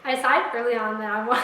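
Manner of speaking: giggling while trying to talk; breaking up with laughter mid-sentence; laughing through words. Real, not acted.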